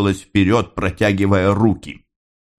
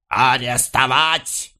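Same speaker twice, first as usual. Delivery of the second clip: a slow, drawn-out order from a policeman at a higher pitch; police shout; 7 semitones higher, much slower than usual. A narrator's reading. Policeman orders the speaker's arrest, drawn-out shout. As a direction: bark the arrest order slowly. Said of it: "крикнул полицейский".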